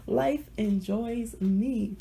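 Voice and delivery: slow, drawn-out, savoring each word; slow and emphatic. Shown as a demonstration. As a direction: say it slowly and deliberately.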